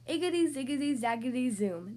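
lightly voiced witch's incantation; muttered spell. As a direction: chant magic words rhythmically, dropping at the end. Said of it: "she muttered a spell".

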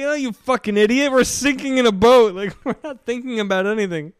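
高く大きな声で怒鳴るまね; 呆れて怒る船員を大げさに; mock furious sailor.

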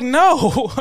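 high, loud drawn-out no; retold protest. Himself answering the lady's accusation, retold protest. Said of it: "And I was like".

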